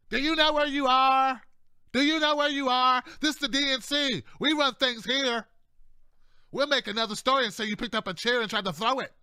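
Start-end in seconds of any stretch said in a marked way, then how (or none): 0.1-8.0 DNC insider. Retold or imitated. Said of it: "They're looking at you like".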